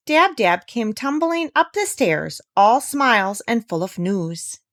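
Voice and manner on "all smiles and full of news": plain reading voice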